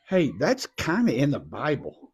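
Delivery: whispered aside. Real, not acted. Aside to child.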